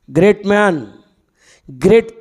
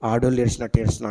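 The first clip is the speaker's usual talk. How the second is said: put-on boy answering; 8 semitones lower, 8 dB quieter, much faster than usual. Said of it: "అంటే".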